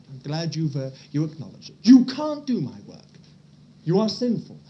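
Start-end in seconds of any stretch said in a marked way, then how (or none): 1.8-4.6 booming divine rebuke; God declaring, strong and loud. Pretend. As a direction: thunder it as God speaking. God's voice in sermon.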